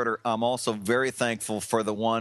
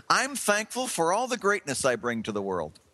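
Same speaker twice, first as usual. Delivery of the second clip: put-on chirpy four-year-old; 6 semitones higher than usual. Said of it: "with his chirpy little four-year-old voice".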